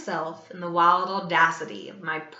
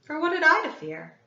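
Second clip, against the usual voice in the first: mad bravado; 8 semitones higher, 4 dB louder, faster than usual. A narrator's reading. Mad confident rhetorical question.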